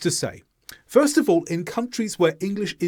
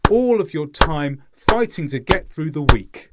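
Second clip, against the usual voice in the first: all raised and punched, the rest kept in steady rhythm; stress on all; 4 dB louder than usual. Shown as a demonstration. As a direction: hit all hard, then keep the beat to week. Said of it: "he's trying to highlight the word all".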